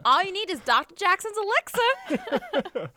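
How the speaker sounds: slow huckster tagline. Acted.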